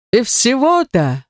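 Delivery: mild amused god. A narrator's reading. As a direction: savour the joke slowly. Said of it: "начал веселиться бог".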